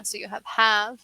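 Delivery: stressed have with a clear v; have vs half. Shown as a demonstration. Teacher models have for a learner. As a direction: say have, ending on a voiced v. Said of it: "don't confuse those".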